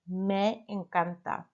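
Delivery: me encanta said slowly and clearly; me encanta spoken carefully, each syllable clear; careful Spanish. Shown as a demonstration. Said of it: "I should have said".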